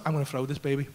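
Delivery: low, very soft inner voice; intrusive thought. Retold or imitated. New dad holding his baby, low quiet thought. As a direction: murmur it as a secret thought.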